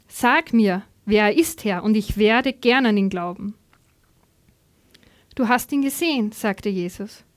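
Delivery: animated, clearly phrased reading aloud; Bible story narration. A narrator's reading. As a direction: read the Gospel story to a congregation.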